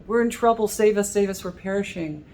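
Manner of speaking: mock panic calling out to God; alarmed plea. Disciples calling to Jesus in the storm, alarmed plea. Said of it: "and alerting God".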